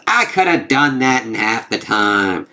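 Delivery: slow, drawn-out grumble of a complaint; Loki. Retold or imitated. Trickster cuts in on the rhyming storyteller, slow put-on complaint. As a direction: stretch it out as a put-on quote. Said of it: "I love how Loki's like".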